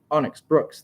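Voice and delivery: hyped radio introduction; chorused announcement. A narrator's reading. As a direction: proclaim the champion's name over the radio. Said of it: "they both chorused through the radio".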